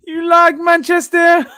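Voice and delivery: high, loud put-on film voice; In-Betweeners quote. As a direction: tease it like the character in the film. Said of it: "For anyone who watches In-Betweeners".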